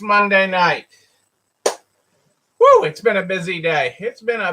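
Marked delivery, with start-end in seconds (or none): 1.6-2.8 sudden high whoop; high woo. Real, not acted. Exclaiming about busy day.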